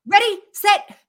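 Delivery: loud laughing race start; shouting. Retold or imitated. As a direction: yell it like a starter.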